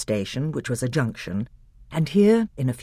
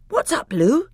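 put-on higher, sudden boy's query; startled boy; 13 semitones higher, 5 dB louder than usual. Edmund asks Lucy why she cried out, startled.

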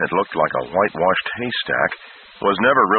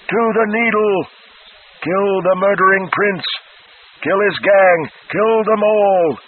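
insane shriek; 11 semitones higher, 4 dB louder than usual. A narrator's reading. Flagg shrieking down at the escaping prince, high and furious. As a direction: screech it like a cheated devil bird. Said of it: "He was insane with rage".

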